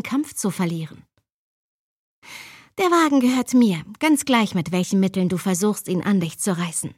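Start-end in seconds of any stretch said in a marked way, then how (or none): 2.8-6.9 hysterical. Acted. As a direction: fight for the car, hysterical. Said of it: "sprach mit vibrierender, hysterischer Stimme".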